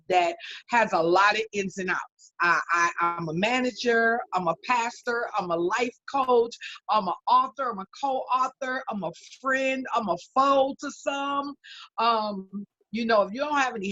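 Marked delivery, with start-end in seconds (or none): 2.4-11.5 building excitement. Real, not acted. Building list of roles.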